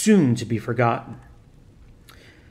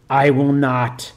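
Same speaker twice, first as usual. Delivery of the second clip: groaned; 4 dB louder, slower than usual. Acted. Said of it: "the demon groaned".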